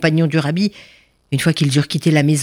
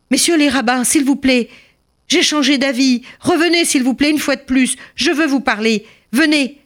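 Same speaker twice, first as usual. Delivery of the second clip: calling them back; 10 semitones higher than usual. Acted. Miser calling rabbis back again.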